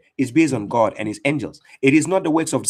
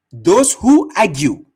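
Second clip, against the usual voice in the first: slow emphatic repeat; 6 dB louder, slower than usual. Shown as a demonstration.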